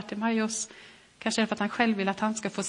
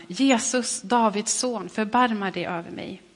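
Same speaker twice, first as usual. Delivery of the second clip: a raised cry, loudest on Jesus; calling out. Acted. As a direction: call out to Jesus for mercy. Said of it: "ropade han".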